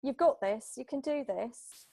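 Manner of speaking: lightly voiced encouraging pep talk; a hint of a cheerleader urging someone on. Coach giving a client a boost of confidence, light cheerleader talk. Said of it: "just like that cheerleader talk".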